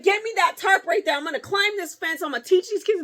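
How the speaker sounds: high, loud laughing mock threat; laughing through a threat. Real, not acted. Retelling her fence climb to friends, laughing. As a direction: laugh while you bluster.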